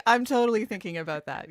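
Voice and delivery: laughing it out quickly; teasing with a laugh. Real, not acted. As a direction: joke through a laugh, fast. Joking about taking a cruise.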